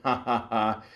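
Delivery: mock "ha ha ha"; imitated laughter. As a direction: laugh out a retold written chuckle. Retells her typed laughter in joke.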